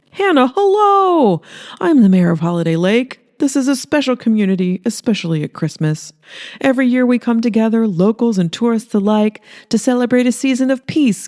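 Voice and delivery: a sharky mayor selling his town to the camera; smarmy mayor. Acted.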